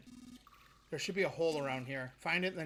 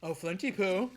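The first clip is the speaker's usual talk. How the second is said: Mad Gypsy impression; 4 semitones higher, 5 dB louder than usual. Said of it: "That was my Mad Gypsy impression".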